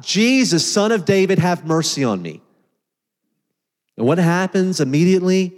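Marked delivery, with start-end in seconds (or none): 0.0-2.4 crying out. Retold or imitated. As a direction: call out to him across a crowd. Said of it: "he screams out".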